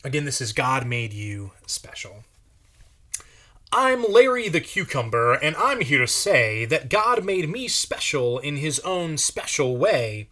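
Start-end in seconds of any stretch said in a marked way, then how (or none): 3.7-10.3 lightly voiced cheerful cucumber, a touch higher; sing-song character read, bouncy rhymes; Larry the Cucumber. Reading to kids as a cheerful cucumber.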